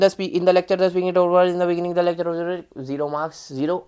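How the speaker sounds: rushed, jumbled reading; rushing through the lecture summary; too fast. Shown as a demonstration. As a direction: gabble the answer too quickly. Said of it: "ये नहीं कि हम बहुत तेज बोल रहे हैं".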